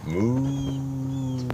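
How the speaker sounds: soft cow moo. Shown as a demonstration. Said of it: "That's the way the cow goes".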